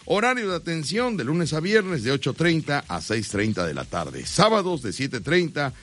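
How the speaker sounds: steady radio commercial read; host reading a live sponsor spot. Acted. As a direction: sell the sponsor to listeners.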